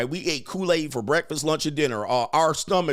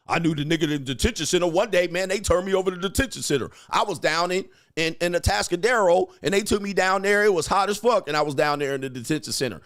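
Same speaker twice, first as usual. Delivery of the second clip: hint of a hyped-up bragger, quicker and higher; mock boastful storyteller; 3 semitones higher than usual. Host imitating a prison bragger's detention tale, mock excitement. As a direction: rattle off a lightly mocked war story.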